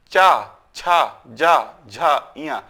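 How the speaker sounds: चा, छा, जा, झा, इया slowly, tongue to palate; slow demo of चा, छा, जा, झा, इया from the palate; palatal consonant drill. Shown as a demonstration. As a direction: draw out चा, छा, जा, झा, इया as palatal sounds. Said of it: "ये तालु से उपयोग किया जाए".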